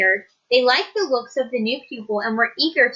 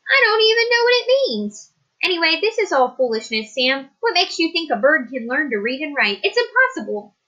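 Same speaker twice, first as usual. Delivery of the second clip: a higher, impatient schoolteacher; teacher voice; 6 semitones higher than usual. Acted. Teacher dismissing Sam's request, higher and impatient. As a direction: scoff at the idea as the stern teacher.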